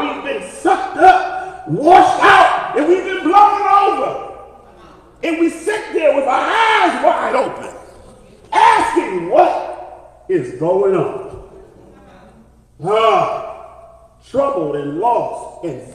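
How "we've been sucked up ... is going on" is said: high-pitched pulpit refrain; rising preaching. Real, not acted. Preacher to congregation about sitting stunned, rising preaching. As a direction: preach it higher, phrase by phrase.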